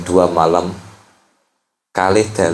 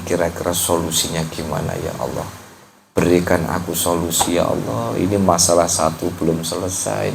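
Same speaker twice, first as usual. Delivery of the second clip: soft, lower confiding plea to God; intimate prayer; 3 semitones lower, 3 dB quieter than usual. Acted. Preacher voicing a worshipper confiding softly in God. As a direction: talk to God like a friend, quietly.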